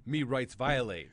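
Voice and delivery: slow, halting caricature in broken English; hammed-up old-western stereotype voice; mock Native American. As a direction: chop it up like a movie stereotype. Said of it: "You sound like a Native American Indian".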